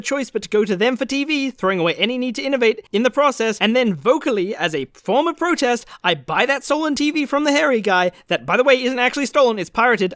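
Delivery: exasperated rant. Real, not acted. Correcting the Best Buy analogy, exasperated. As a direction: pile up the clauses in exasperation.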